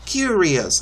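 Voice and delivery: "Curious" said cleanly like the dictionary audio; model pronunciation. Shown as a demonstration. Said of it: "that's how to pronounce it".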